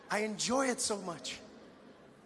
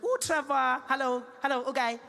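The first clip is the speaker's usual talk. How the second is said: excited fan; 6 semitones higher, 4 dB louder than usual. Retold or imitated. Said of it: "She was like".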